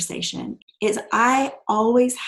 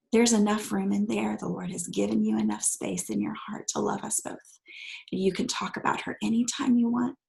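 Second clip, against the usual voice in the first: tender reassurance. Retold or imitated. Bedtime reassurance to small child.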